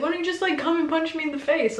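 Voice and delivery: teasing, high and playful; lightly mock him, clearly kidding; joking. Singer joking after being elbowed, high teasing voice. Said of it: "Like, joking".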